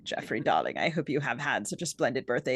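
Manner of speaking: a hint of a plummy upper-class letter writer; posh voice. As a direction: read the birthday note as a mock-posh socialite. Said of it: "imagining her reading it in this posh voice".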